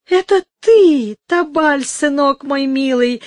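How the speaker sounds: put-on high squeal of an old crone; squeaky old woman. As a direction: squeak it out like a delighted old hag. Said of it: "запищала старуха".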